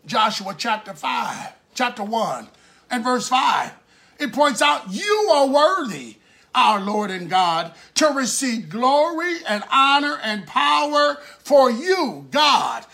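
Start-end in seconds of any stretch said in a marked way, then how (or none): 4.9-12.9 emphatic scripture proclamation; fervent preaching. Acted. Preacher proclaiming a verse of praise, fervent preaching. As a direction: declaim it as praise to God.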